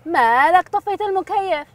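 high, loud, drawn-out challenge; indignant demand. Acted. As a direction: demand an explanation, stretching it out loudly. Passenger confronts driver over switched-off air conditioner.

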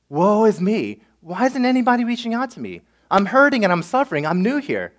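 hammed-up self-pitying lament; mock self-pity. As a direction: moan like someone feeling sorry for themselves. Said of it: "self-loathing or sort of".

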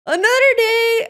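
high, sustained, drawn-up delivery; high-pitched proclamation. Real, not acted. Player starting a saying on a new attempt, high-pitched proclamation. Same words called out high.

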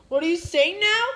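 calling out puzzled. Pretend. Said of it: "I lost my voice".

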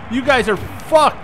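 high, excited gloat; gloating taunt. Real, not acted. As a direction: rub it in their faces. Gloating at opponents.

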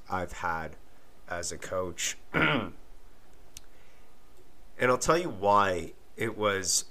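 lost voice, rough and strained; hoarse voice. Real, not acted. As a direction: talk through a worn-out hoarse voice. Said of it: "you could probably hear it now, that I lost my voice".

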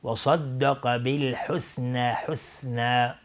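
slow, thick s in صدق, thin s in حسنی; sad versus sin. Shown as a demonstration. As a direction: separate heavy صدق from light حسنی. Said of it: "باید دقت کرد فرق بین صاد و سین".

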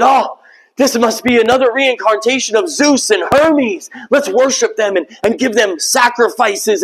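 mock worshippers. Excited worshippers of Zeus.

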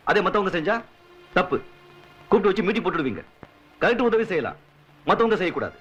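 forceful, indignant tirade; heated ranting. Acted. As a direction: argue back hotly, phrase by punchy phrase. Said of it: "கத்த வேண்டியதெல்லாம் கத்தி முடிச்சிட்டீங்களா?". (ஆவேசமாக வாதாடும் குரல்)

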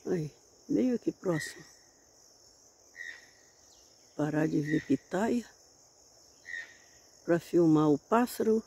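quietly filming a bird in the bushes, hushed. Real, not acted. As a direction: keep it hushed so you don't scare the bird.

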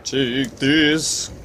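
put-on high wavering old man. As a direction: croak it like a wise old hermit. Quoting Zelda old man.

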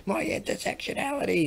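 squeaky mock outrage; mock offended voice. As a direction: parody an outraged activist. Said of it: "they'll go".

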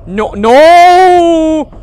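high, loud frantic begging; panicked pleading. Real, not acted. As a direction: beg to be let out in panic. Trapped in horror game room.

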